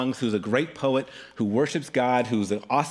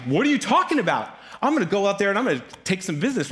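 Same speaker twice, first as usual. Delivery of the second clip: high, rushed bravado; acted indignant challenge, gaining speed; cocky defiance; 6 semitones higher, faster than usual. Young David answering scared soldiers, brash and high.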